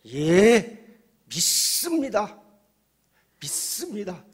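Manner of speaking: high, loud frantic affirmation; desperate shouting. Acted. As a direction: shout your belief as if your life depends on it. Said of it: "소리소리 지르는 거예요".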